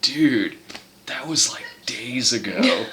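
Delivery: a hint of a mellow dude; stoner Jesus. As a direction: let it trail out, unbothered. Imagined stoner Jesus reply.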